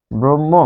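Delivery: ব্রহ্ম said "brom-mo"; doubled m. Shown as a demonstration. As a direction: hold the m in ব্রহ্ম, h silent. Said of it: "দুইবার উচ্চারিত হচ্ছে".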